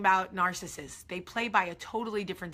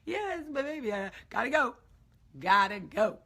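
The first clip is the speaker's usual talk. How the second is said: fake cheerful brush-off; 4 semitones higher, 4 dB louder than usual.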